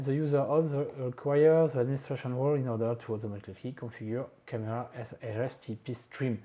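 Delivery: English read aloud with French vowels and rhythm; bad French-accented English. Real, not acted. Tutorial host reads a log message, bad French accent. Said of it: "Mon accent anglais est dégueulasse".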